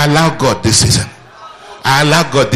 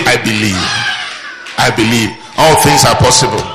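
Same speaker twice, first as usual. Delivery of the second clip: bold confession; 3 semitones lower than usual. Shown as a demonstration. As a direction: proclaim it with full conviction. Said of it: "Just say".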